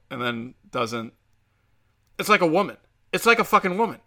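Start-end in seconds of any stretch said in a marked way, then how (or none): 2.2-4.0 exasperated rant. Real, not acted. Ranting at buddy.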